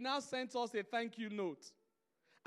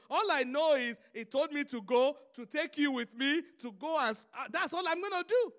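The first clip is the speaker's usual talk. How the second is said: forceful preaching; 5 dB louder than usual. Acted. Preaching Abraham's thoughts.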